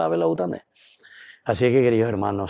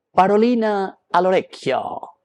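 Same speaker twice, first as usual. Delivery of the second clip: parolina al orecchio flung out high and loud; emphatic call-out; 9 semitones higher, 4 dB louder than usual. Shown as a demonstration. Priest to congregation, proclaiming the saying high and loud. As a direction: belt out parolina al orecchio like a catchphrase. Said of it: "palabra al oído".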